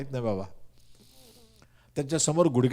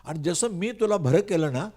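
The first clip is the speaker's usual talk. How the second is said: voice of God; 4 semitones higher than usual. Retold or imitated. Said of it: "पण देव म्हणतो".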